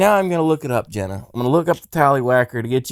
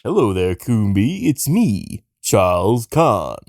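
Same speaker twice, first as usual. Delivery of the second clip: mock Japanese accent. Shown as a demonstration. Showing Coombe the Japanese voice, mock accent. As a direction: put on a measured Japanese accent. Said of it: "I do a Japanese voice too".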